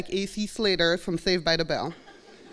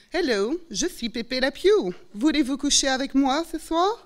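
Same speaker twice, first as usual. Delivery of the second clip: hammed-up French accent, pitched a bit higher; mocking French accent; 6 semitones higher than usual. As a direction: mimic a cartoon French accent the way the mockers did. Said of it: "the mimicking of my accent".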